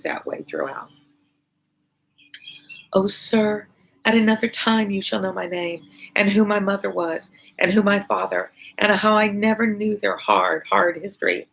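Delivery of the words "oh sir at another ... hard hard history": a lightly voiced young daughter, pleading tenderly, a bit higher; Lucie pleading. Reading Lucie's pleading speech aloud.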